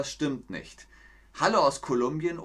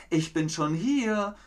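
teasing call; 7 semitones higher than usual. Acted. Hedgehog's wife calls to the arriving hare, teasing. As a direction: call out smugly.

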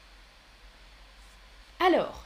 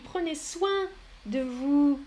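"Prenez soin de vous" said slowly, each word apart; slow and clear; slower than usual. Shown as a demonstration. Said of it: "Soin, comme ça". (lentement, en détachant les mots)

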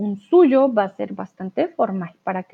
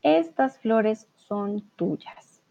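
slow dictation reading; 4 dB quieter, much slower than usual. Shown as a demonstration. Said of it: "Aquí estamos practicando".

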